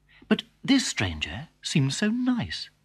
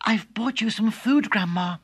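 put-on higher girlish voice; the girl offering food; lightly voiced girl; little girl; 9 semitones higher than usual. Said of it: "said Little Red Riding Hood".

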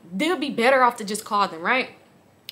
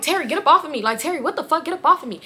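higher, exasperated demand, reenacted; retold insistent protest; 6 semitones higher, faster than usual.

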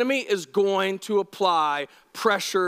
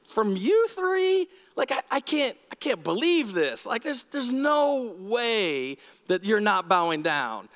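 mock king disbelief. King to the three friends, mock disbelief. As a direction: play a stunned king in slang. King's outrage retold in slang.

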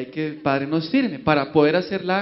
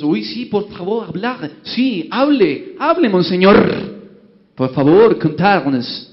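eager bishops; 6 dB louder, slower than usual. Acted. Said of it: "Todos los".

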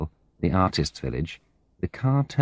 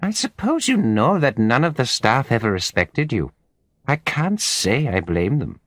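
high-pitched nasal voice; 6 semitones higher than usual. A narrator's reading. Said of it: "in her high-pitched nasal voice".

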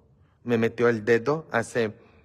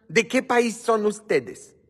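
curious call to viewers; 11 semitones higher, 4 dB louder, slower than usual. Real, not acted. Asking viewers where from.

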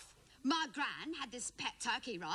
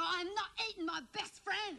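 high-pitched, outraged protest; indignant refusal; 6 semitones higher than usual. Retold or imitated. Acted indignant refusal at lunch.

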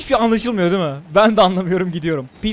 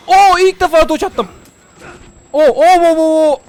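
higher, loud whooping; excited cheering; 7 semitones higher, 7 dB louder than usual. Real, not acted. Gamer to viewers after a dodge, loud excited cheer. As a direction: celebrate the first dodge out loud. First successful dodge in game.

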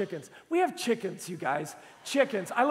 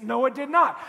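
louder, firm comic denial; mock furious denial; 3 semitones higher, 6 dB louder than usual. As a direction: push back indignantly. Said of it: "I'm furious".

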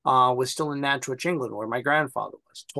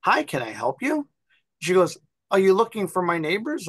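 put-on little old lady voice; 6 semitones higher than usual. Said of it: "This little old lady comes out and she goes".

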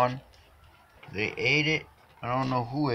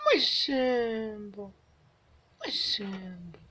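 loud, high, half-crying coo; tearful; 14 semitones higher, 7 dB louder, slower than usual. Real, not acted. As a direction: melt into happy tears over the cat. Owner overwhelmed by cat's love.

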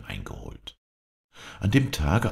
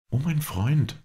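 much higher, coaxing lady; lady coaxing her lover, pitched high; lady's voice; 12 semitones higher, slower than usual. A narrator's reading. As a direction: sweet-talk him as the lady. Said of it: "antwortete sie".

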